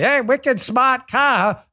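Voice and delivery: mock Boston accent, drawn out. Host mocking pandering to locals, slow fake Boston accent. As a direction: stretch it in a put-on Boston accent. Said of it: "talking to people in Boston".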